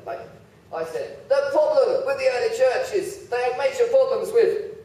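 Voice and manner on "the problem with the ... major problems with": higher, laughing through the slip; half-laughing at his own blunder; blurted slip. Retold or imitated. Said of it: "but I didn't say that".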